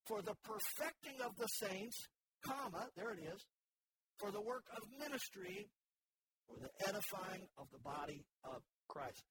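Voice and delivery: scripture reading. Shown as a demonstration. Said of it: "verse twelve reads".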